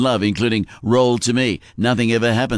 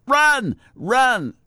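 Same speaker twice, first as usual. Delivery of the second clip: mock coach yell; 12 semitones higher than usual. Coach in the stands urging a motionless horse to run, mock yelling. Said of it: "The coach in the stands yelling out".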